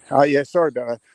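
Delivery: real breathlessness from a hill run; winded, breaking into a rueful laugh; out of breath. Real, not acted. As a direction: apologize while puffed from running uphill. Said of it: "I'm out of breath".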